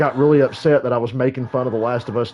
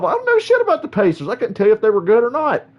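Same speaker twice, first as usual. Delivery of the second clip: mock-exasperated higher rant; retold rant; 6 semitones higher than usual. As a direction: vent at the troll in a retold rant. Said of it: "I'm like".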